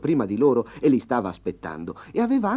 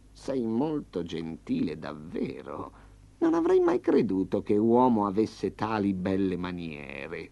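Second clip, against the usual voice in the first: purring tiger; 2 semitones lower, slower than usual. Acted. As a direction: purr the compliment like a pleased cat. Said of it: "ronfò Tigre".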